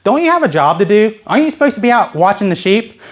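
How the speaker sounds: put-on mildly needling older brother; lightly acted scolding questions; picking him apart. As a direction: nag him a little, picking at faults. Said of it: "starts picking him apart".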